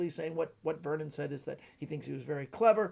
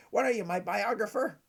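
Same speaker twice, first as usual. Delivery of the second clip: higher, louder impersonated retort; Vernon; 5 semitones higher, 6 dB louder than usual. Acted. Magician questioning an over-informed young fan, impersonated retort. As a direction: challenge the fan in the raised character voice. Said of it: "this is my Vernon impression".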